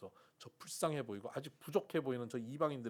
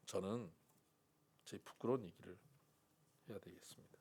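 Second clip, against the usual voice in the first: whisper; 5 semitones lower, 7 dB quieter than usual. Real, not acted. Confessing shame.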